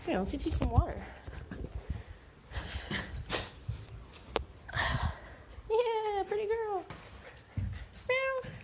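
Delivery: very high soft cooing. Real, not acted. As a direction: coo up high at the dog. Cooing at the dog.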